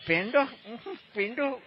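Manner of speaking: rising, disgusted "પેંડો, પેંડો?" going quiet; fed-up penda. Retold or imitated. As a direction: sound sick of sweets. Sick of eating only penda. (કંટાળેલો પેંડો)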